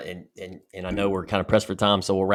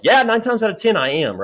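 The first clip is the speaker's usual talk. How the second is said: much higher and louder, bursting out; proud answer; 12 semitones higher, 6 dB louder than usual. Retold or imitated. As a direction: fire it back with pride. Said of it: "I'm like".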